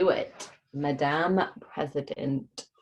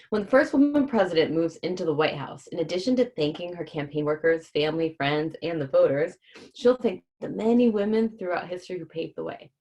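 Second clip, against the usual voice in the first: reading aloud. Acted. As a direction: clear read-aloud voice for kids. Reads the book's back cover.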